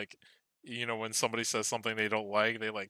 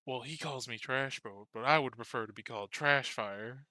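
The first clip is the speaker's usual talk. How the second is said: a hint of a chatty, put-upon possum; lightly voiced possum; 2 semitones higher, 3 dB louder than usual. Possum answering a player about its name, lightly voiced. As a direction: lightly play a grudgingly accepting pet possum.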